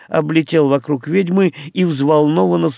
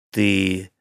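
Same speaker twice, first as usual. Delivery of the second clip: slow, lower, stunned question; dumbfounded; 5 semitones lower, 3 dB quieter, much slower than usual. Acted. Henry, utterly baffled, turns to the witch with a slow, stunned question. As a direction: drag out each word in disbelief. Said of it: "совершенно ошарашенный Генри".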